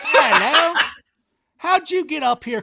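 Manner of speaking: high, loud Scottish storybook accent with a laugh; playful Scottish accent; Scottish watchman. Shown as a demonstration. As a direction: do the Scottish security guard for a child. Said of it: "the night security watchman is Scottish".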